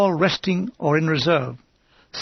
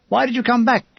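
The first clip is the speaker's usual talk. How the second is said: higher-pitched, restrained narrated shout; shouting, threatening; 5 semitones higher than usual. A narrator's reading. Major rebukes a wounded soldier, threatening mild shout. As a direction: demand it as an angry officer, without full volume. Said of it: "He's shouting at me and threatening me".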